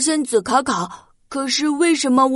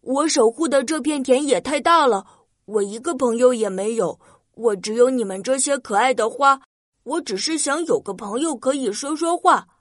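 sad; 3 semitones lower than usual. Acted. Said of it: "红着脸说".

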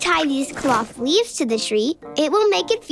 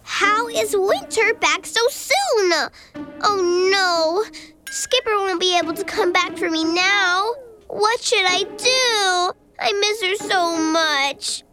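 sad, near tears. Acted. Winter returns, friend gone.

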